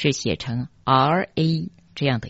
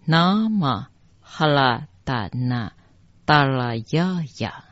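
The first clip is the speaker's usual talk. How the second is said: mantra recitation. Shown as a demonstration. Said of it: "第一句整句念下来".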